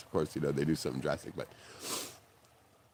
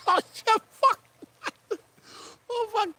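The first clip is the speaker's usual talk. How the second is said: laughing curse; 3 dB louder than usual. Real, not acted. Cracking up remembering call.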